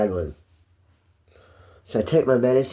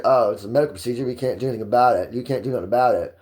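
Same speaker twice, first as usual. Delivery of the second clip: fast, offhand official brush-off; quick dismissive staff voice; faster than usual. Retold or imitated. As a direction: rattle it off like a bored official. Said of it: "turned around and said".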